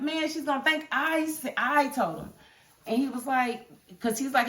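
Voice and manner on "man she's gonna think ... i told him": a touch higher worried man; lightly voiced Gary. Fan voices the worried man, mildly higher. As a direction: voice him nervous, a bit higher.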